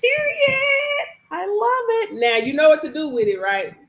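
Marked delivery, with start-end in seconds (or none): 0.0-2.1 high, emphatic "Period"; excited approval. Real, not acted. Coach cheering a student's credit win, high and excited.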